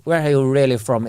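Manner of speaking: mildly mocked middle-class posh accent. Showing how the question offends, said in posh accent. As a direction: put on a posh, probing accent. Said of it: "in that accent".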